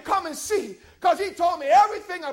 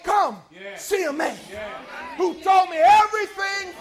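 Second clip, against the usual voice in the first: loud, climbing call of come see a man; the woman calling the townsfolk to Jesus; 3 semitones higher, 3 dB louder than usual. Acted. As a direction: call the whole town to come. Woman's invitation, preached.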